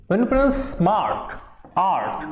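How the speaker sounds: "आर्ट" with the aa pulled long; "आर्ट" said with a long, stressed aa; stretched aa. Shown as a demonstration. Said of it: "आ पे आपका stress हो रहा है".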